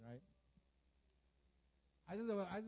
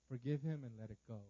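calm, low counsel; gently lowered, measured instruction; Holy Spirit's prompting; 6 semitones lower than usual. Acted. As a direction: speak it as an inner nudge. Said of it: "the Holy Spirit's like, it comes in my heart".

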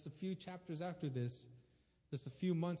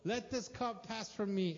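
pleading prayer; 7 semitones higher than usual. Retold or imitated. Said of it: "he says it three times".

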